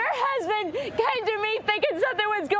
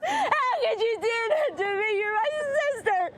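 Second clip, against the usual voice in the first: choked, tearful words; wife sobbing at her sister; crying. Real, not acted. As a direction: let the tears break it.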